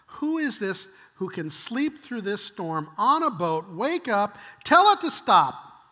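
slow, building to a loud, high peak; incredulous, stretched-out astonishment; awestruck disbelief. Acted. Disciples amazed at Jesus.

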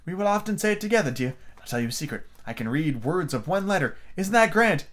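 high queen voice, dipping for the secret; confiding White Queen. A narrator's reading. White Queen telling Alice a secret, confiding. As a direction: share a proud little secret.

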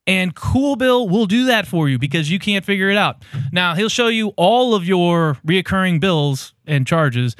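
hammed-up sponsor spot, lightly pitched; mock ad read. Podcast host hamming up a fake sponsor read for Brian. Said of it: "doing one of these mock ads".

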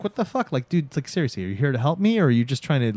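retold irritated girlfriend; annoyed. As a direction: call him out, half joking. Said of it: "she gets annoyed".

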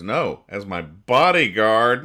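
slow, loud comic comeback; hammed-up punchline. Bard answering Honey in a comic, hammed-up reply. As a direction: draw out the punchline and hit it hard.

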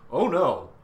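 high, loud gleeful oh no; gleeful mock menace. Hela answering Harkin, gleeful mock-villain oh no. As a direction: relish it like a villain. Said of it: "Hela's like".

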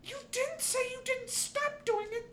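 high, laughing complaint; giggling, can't believe it; laughing exasperation. Real, not acted.

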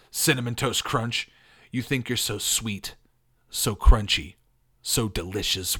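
lightly put-on tough wrestler; mild tough-guy trash talk. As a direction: cut a wrestling promo, punching key words. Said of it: "go with a tough voice".

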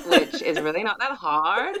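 put-on drawn-out, slow Valley Girl American accent; hammed-up Valley Girl voice, stretching the words; bad Valley Girl accent. Shown as a demonstration. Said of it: "like, really bad".

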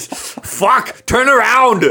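put-on high, loud action-hero accent; Arnold Schwarzenegger impression. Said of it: "Did he just turn into Arnold for a second?".

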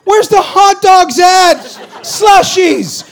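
high, loud, laughing complaint; whiny kid. Retold or imitated. Kid longing for baseball snacks, laughing whine. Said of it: "Is really what I was thinking".

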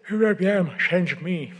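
high and loud, cracking up mid-quote; can't hold back a laugh on the line; breaking into laughter. Real, not acted. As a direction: giggle spilling into the words. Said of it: "Sorry, sorry about that".

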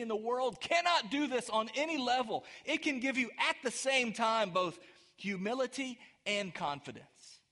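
insistent, emphatic sermon voice; impassioned preaching. Real, not acted. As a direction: press the point on the congregation.

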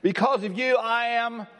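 high, ringing "free". Shown as a demonstration. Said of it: "So say it again".

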